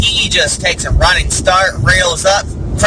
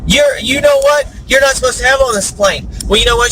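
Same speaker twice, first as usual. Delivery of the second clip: raised pitch, comic telling-off; mock scolding; 7 semitones higher than usual. Pilot and passenger quarrel over parakeet, mock scolding. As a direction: scold like a peeved pilot in a joke.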